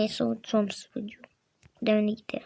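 soft hushed whisper. Pretend. Child hiding with father, hushed whisper. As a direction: whisper so nobody hears.

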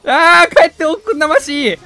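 mock archaic courtesan speech. Playful archaic phrase mid-fight.

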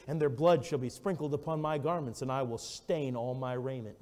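solemn King James reading; scripture reading. Acted. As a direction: read the prophecy with weight.

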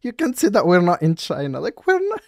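high whiny mock cop voice, slow then squeaking up; mocking the officer. Mocking the officer's rule for viewers, squeaky parody. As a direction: parrot her like a prissy scold.

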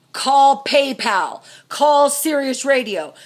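slow, loud, one word at a time; curt orders. Real, not acted. Wife furiously ordering husband to cancel bills. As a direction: bark each order out slowly.

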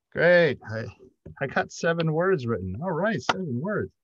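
high, exaggerated delight at a tiny win; mock-triumphant writer. Writer reporting seven words to a friend, mock triumph. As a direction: celebrate it like a big achievement, hammed up.

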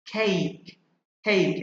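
"খেইক" with a clear ei glide; "খেইক" said as kheik, demonstrated slowly; diphthong EI. Shown as a demonstration. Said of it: "এই এর উচ্চারণ এই এর মতো".

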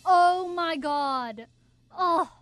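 slow, whimpering oh my God, half-sobbed; hammed-up despair over her hair, dragged out; mock crying. Melodramatic hair crisis.

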